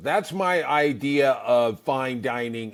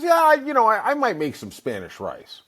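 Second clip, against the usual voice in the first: mom voice; 9 semitones higher, 4 dB louder than usual. Retold or imitated. Mom voice retold.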